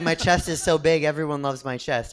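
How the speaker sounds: put-on loud, high boastful kid; bragging kid voice. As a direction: brag like a proud six-year-old. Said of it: "he was like".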